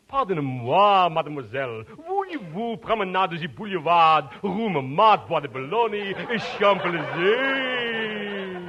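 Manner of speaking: mock French. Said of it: "in perfect French".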